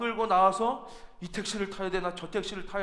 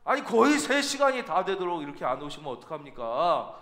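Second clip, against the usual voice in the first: restrained anger. Retold or imitated. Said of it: "화를 억누르면서 그랬대요".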